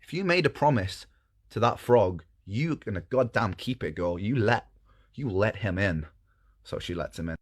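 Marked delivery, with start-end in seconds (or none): 0.0-6.1 a hint of a commanding father; stern king. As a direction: lay down the law to your daughter. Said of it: "and the king goes".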